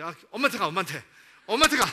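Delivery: loud, rising, irritated and annoyed.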